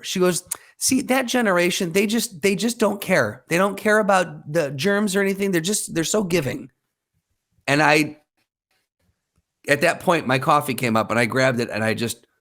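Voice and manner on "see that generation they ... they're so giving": sustained high-pitched old lady imitation; admiring old lady. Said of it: "the old lady goes".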